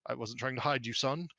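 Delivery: lightly voiced, stammering noble father; a touch of embarrassed backpedalling; flustered lord. Lord Kensington explains his oldest to Mert, mildly flustered.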